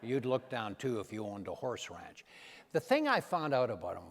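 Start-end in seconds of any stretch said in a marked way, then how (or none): 0.0-2.2 quieter, low Reagan voice; a lightly voiced Reagan quip; Ronald Reagan's line. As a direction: repeat the punchline low and soft. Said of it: "that was a funny line".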